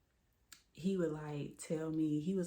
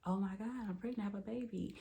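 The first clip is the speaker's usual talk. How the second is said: excited; 5 semitones higher, faster than usual. Retold or imitated. Recalling finding out she was pregnant, mildly excited. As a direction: retell a thrilled reaction with a lifted pitch. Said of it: "like, excited".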